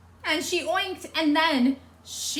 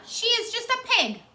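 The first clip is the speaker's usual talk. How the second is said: much higher, louder indignant; scornful Eugenia; 12 semitones higher, 5 dB louder than usual. Acted. Eugenia protesting to Missus Watson, high indignant scorn. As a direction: dismiss the pig with disdain.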